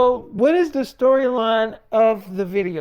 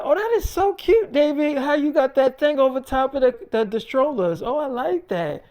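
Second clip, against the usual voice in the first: much higher, squealing delight; gushing wife; 5 semitones higher than usual. Retold or imitated. Wife admiring the strollers, high squealing delight. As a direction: coo over the strollers like it's adorable.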